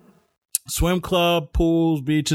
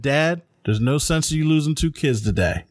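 laughing through it; 3 semitones lower than usual. Retold or imitated. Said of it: "And I said".

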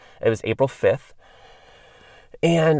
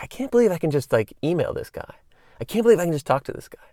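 starstruck disbelief; 6 semitones higher, faster than usual. Retold or imitated. Retelling his own starstruck thoughts.

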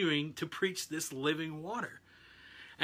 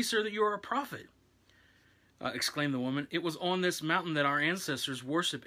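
scripture reading. Acted. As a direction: read the Bible passage aloud, a touch raised. Reads the scripture passage aloud.

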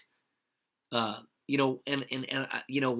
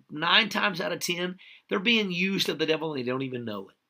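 higher-pitched, emphatic preaching; fervent preaching; 5 semitones higher than usual. Real, not acted. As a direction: preach it with rising urgency, pitch lifted.

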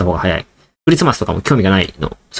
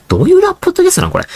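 much higher and fast, laughing at himself; amused self-mockery; much faster than usual. Real, not acted. Realizing his rant sounded like a rap, amused and fast. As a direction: blurt it out cracking up.

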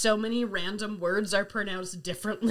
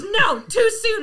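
high, loud, drawn-out mock cry; imitated upset protest; 9 semitones higher, 8 dB louder, slower than usual. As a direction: cry out slowly as the upset friend. Friend's upset reply, acted.

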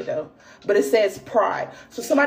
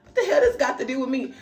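mock outrage; 12 semitones higher than usual. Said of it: "I'm like".

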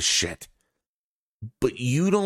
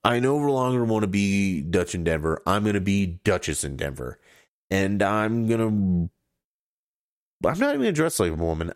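mock announcement; 3 semitones lower than usual. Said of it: "I'm up here on the podcast and be like".

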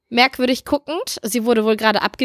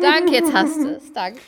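ordinary talk

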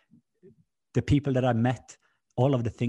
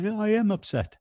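upset; 11 semitones higher, 4 dB louder than usual. Retold or imitated. Retold upset reply.

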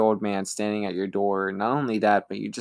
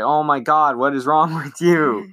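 louder exasperated scold; annoyed sister; 4 semitones higher, 5 dB louder than usual. Retold or imitated. Sister scolding her little brother, louder and exasperated. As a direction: snap at the pest.

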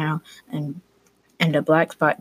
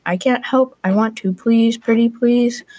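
put-on high, loud begging child, slowing on pretty please; pleading cry; 7 semitones higher, 6 dB louder than usual. A narrator's reading. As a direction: beg like a seven-year-old who badly wants to help. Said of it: "Leo cried".

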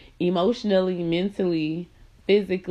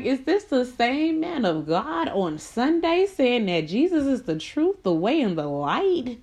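incredulous challenge; 5 semitones higher than usual. Retold or imitated. To her ex, mocking his churchgoing hypocrisy. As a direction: throw his own sermon back at him. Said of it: "And I was like".

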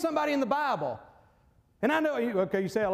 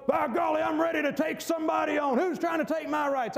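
tough guy bluster; 3 semitones higher than usual. Acted. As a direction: puff up like a picking a fight. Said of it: "you don't find people".

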